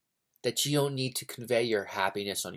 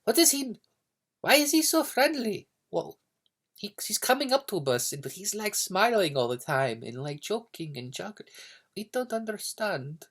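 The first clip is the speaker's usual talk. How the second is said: high-pitched, bewildered mock alarm; acted newcomer baffled in a high voice; freaked out; 10 semitones higher than usual. Russian newcomers puzzled by a friendly neighbor, mock freaked out. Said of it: "they were, like, freaked out".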